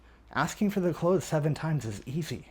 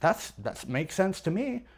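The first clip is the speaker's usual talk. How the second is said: higher, easy-going suggestion; reasonable man tonality; 5 semitones higher, 4 dB quieter than usual. Shown as a demonstration. Salesperson making a casual suggestion to a buyer, reasonable. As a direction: offer it as plain common sense. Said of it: "It's just a reasonable suggestion".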